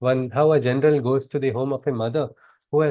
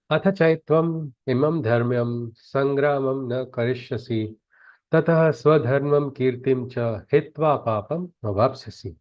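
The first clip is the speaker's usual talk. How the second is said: Sanskrit verse recitation. Acted.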